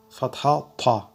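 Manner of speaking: thick, emphatic تا; heavy ta. Shown as a demonstration. Teacher explains tafkhim to learners, heavy تا. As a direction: fill out the t in تا.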